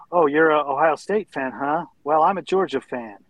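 mildly put-on friendly greeting, slightly lifted. Georgia fan greets an Ohio State fan on a cruise, friendly. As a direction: imitate a chummy fan striking up conversation. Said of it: "he said it in a friendly tone of voice".

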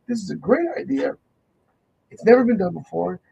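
a hint of eager high pitch, lifting on great; mock the ad man's eager pitch; imitating excited ad man. Retelling the Super Bowl ad man's pitch, mildly excited. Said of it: "He said".

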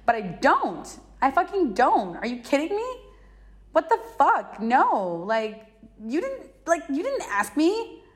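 incredulous, pitch leaping up; indignant. Real, not acted. Woman objecting that she was never asked, indignant. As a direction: protest in disbelief.

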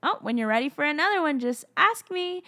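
lightly voiced coaxing, drawing out the ending; God, gently prompting. God inviting a child to ask, lilting prompt. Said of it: "sometimes God's like".

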